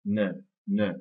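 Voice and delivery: "Ne" unstressed, with a neutral vowel; weak syllable. Shown as a demonstration. Teacher showing a weak syllable, "ne" left unstressed. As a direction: keep "ne" reduced. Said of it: "c'est une syllabe qui est faible".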